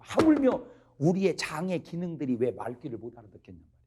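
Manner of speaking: ordinary talk, nothing marked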